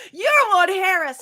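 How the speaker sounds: light replay of a fan's gush; starstruck. Retold or imitated. Retelling starstruck line again.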